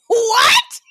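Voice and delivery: laughing high shocked what. Retold or imitated. Friend asked to tell the punch story, shocked laughing what. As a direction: yelp of disbelief through laughter.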